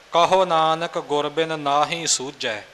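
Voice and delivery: ਨਾਹੀ with a long first "aa"; correct reading. Shown as a demonstration. Teacher quoting the last line, ਨਾਹੀ with a lengthened first vowel. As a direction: read ਨਾਹੀ as "naa-hee". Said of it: "ਸਤਿਗੁਰੂ ਜੀ ਨੇ ਕੰਨਾ ਇੱਥੇ ਰੱਖਿਆ ਹੈ".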